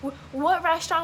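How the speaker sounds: high, anxious mock panic; fretting aloud, lost and stranded; mock panic, phone dead and lost in California; panicked inner voice. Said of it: "crying, and I'm like".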